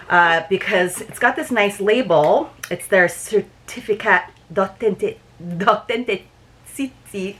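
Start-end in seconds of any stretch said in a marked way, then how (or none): 2.7-7.4 French accent. Shown as a demonstration. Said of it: "I try to do my best French accent".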